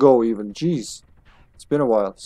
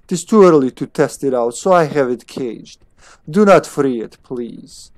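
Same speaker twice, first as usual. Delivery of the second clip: put-on toned-down German-accented scientist; measured lines in a German accent; attempted German accent. Scientist warning about caged Pip, German accent. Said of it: "supposed to have a German accent".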